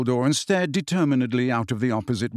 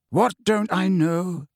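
slow, higher measured question; calm; 5 semitones higher, slower than usual. A narrator's reading. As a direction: ask patiently as the old headmaster. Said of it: "asked Dumbledore calmly".

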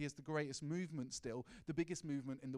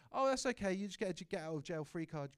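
louder and higher, breezy mock permission; mock careless approval; 4 semitones higher, 6 dB louder than usual. Preacher mocking a God who excuses sin, loud and breezy. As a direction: toss off a careless okay, hammed-up. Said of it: "He doesn't say".

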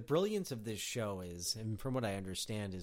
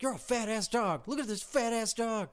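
high, loud mock heckling of a dog; comic put-on yell, pitch jumped up; imitated yelling; 10 semitones higher, 4 dB louder than usual. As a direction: act out yelling insults at a dog. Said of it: "yelling at the dog".

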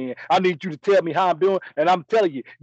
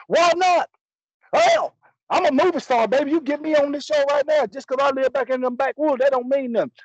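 indignant protest; 8 semitones higher than usual. Retold or imitated. The speaker retelling his comeback to producers who refused him, indignant. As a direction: protest your rejection in a raised, offended pitch.

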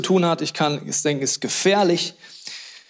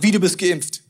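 mocking accuser; 2 semitones higher than usual. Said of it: "der eine denkt dem anderen".

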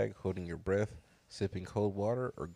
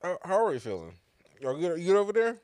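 calling out; 9 semitones higher, 8 dB louder than usual. Real, not acted. Calling across room.

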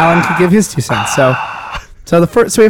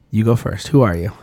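Arnold Schwarzenegger impression; 5 semitones lower than usual. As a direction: play the tough Terminator interrogating him. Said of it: "want me to do Arnold's voice some more".

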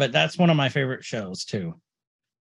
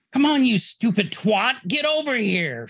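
mock yelling; 7 semitones higher than usual. Imagining a character cussing at people, mock yell. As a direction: imitate someone cussing people out, at talking volume. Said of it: "She's not yelling at people".

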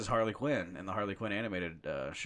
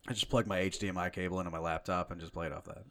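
talking through burps; burpy voice, words pushed out on burps; burping the words; 3 semitones lower, 3 dB quieter, faster than usual. Real, not acted. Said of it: "just talking through burps like a fucking animal".

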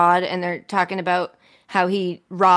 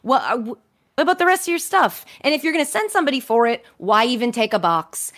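1 incredulous rant; 5 semitones higher than usual. Real, not acted. Exasperated rant about office.

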